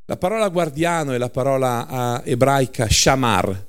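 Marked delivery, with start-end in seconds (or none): 1.9-3.7 shamar with final r; shamar, stressed on the last syllable, final r said clearly; Hebrew word. Shown as a demonstration. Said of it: "non shamà".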